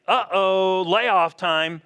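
hammed-up worried worker; mock alarm. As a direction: playfully act out an uh-oh. Acting out dread of work.

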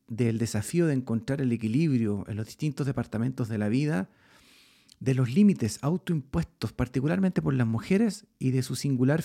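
measured, polished host introduction; podcast intro read. Acted. Host reads the show intro.

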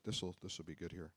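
unvoiced aside to himself; whisper. Real, not acted. Preacher whispering to himself while finding the verse. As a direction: whisper it under your breath.

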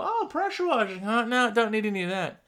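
dismissive passer-by. Retold or imitated. Acted passer-by dismissing the sign.

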